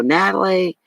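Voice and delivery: high called-out Natalie; calling out a name. Retold or imitated. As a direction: call across the house for her. Husband calling her to phone.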